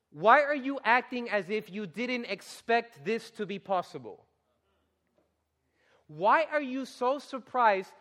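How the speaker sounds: Peter, almost offended, challenging the crowd. Retold or imitated. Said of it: "he's almost offended".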